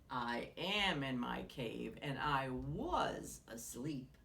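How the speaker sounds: low, slow sleepy grumble; grumbling bear. A narrator's reading. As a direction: grumble like a bear woken too soon. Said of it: "grumbled Bear".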